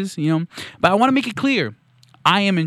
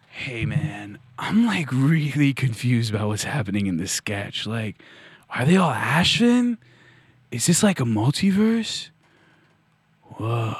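confused slacker; 7 semitones lower than usual. Acted. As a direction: drift along slowly, utterly baffled. Dazed character confused by the sketch.

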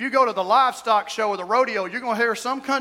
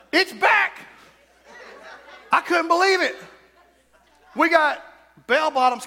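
high, laughing exclamation; laughing disbelief; 6 semitones higher, 3 dB louder than usual. Real, not acted.

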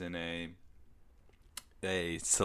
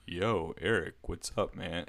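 softly imitating a low-voiced guy; a hint of his deep bass greeting; lightly put-on low voice, trailing softer; 2 semitones lower, 6 dB quieter than usual. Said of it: "he had the lowest voice I'd ever".

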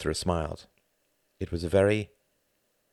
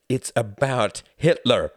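thickly; 6 semitones higher, 7 dB louder, slower than usual. Acted. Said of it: "said Gunther thickly".

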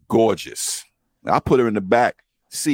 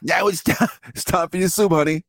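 put-on old lady voice; 7 semitones higher than usual. Voicing old woman feeding.

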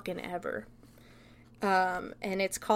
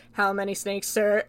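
deadpan. Retold or imitated. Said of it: "'cause it's so deadpan".

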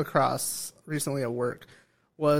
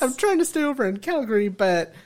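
higher-pitched try at Canadian switching to Hispanic; attempted Canadian-Hispanic accent; 5 semitones higher than usual. Speaker retrying the work impression, attempted Canadian-Hispanic accent. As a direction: imitate a Canadian-Hispanic accent, not quite managing. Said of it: "so hard to switch it".

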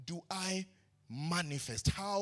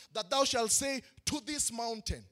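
louder, chanted build of short phrases; preaching at full force; 3 semitones higher, 5 dB louder than usual. Acted. Preacher driving home the equation of faith, loud and rhythmic. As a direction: hammer each short phrase.

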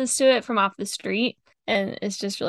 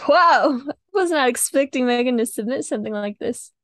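raised-voice "whoa" of surprise; kind of shocked; 3 semitones higher, 4 dB louder than usual. Retold or imitated. Recalling her reaction to Megan's song pick, shocked. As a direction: react as if caught off guard. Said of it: "I was kind of shocked".

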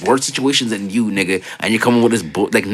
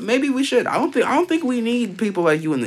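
mock cold reply; 11 semitones higher, 3 dB quieter than usual. Voicing his cruel reply.

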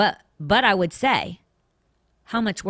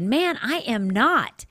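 indignant; 5 semitones higher, slower than usual. Acted. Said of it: "And he was so indignant".

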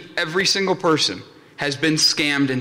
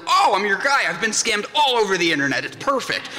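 higher-pitched, eager acted reply; 4 semitones higher than usual. Speaker accepting a scam talk offer, eager.

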